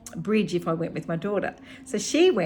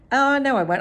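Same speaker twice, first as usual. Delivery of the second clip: higher and louder, a quick self-correcting exclamation; sudden change of mind; 7 semitones higher, 7 dB louder than usual. Real, not acted. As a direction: blurt it out as you catch yourself. Catches herself, changes mind.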